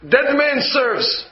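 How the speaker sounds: drawn-out ping-pong serve call; son's serve call. Retold or imitated. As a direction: announce it slowly before serving. Son calls the serve in play.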